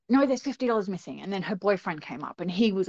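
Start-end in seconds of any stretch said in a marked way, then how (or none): 0.1-1.2 higher, insistent retold protest; insistent accusation. Woman accusing mum over missing money, insistent. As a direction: push back with a retold accusation.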